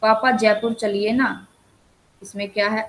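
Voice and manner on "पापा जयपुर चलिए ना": mildly coaxing request to papa. Shown as a demonstration. Teacher voices a child asking papa for a trip, mild request. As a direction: plead lightly, as an example. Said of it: "अनुरोध".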